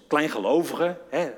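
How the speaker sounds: imagined scolding, ending on a rise; a touch of cross reproach; mildly angry. Retold or imitated. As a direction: try it as a mild rebuke. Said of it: "Was hij boos?".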